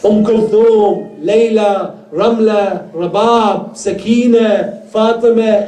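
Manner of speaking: names called high and drawn out; crying out. Acted. Zainab summons the women to bid farewell, crying out. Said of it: "Zainab cries out".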